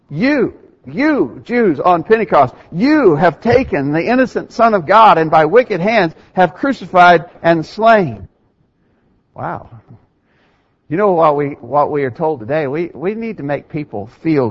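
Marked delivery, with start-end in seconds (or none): 0.1-8.3 forceful preaching. Retold or imitated. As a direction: hammer each accusation home. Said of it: "What does he say?".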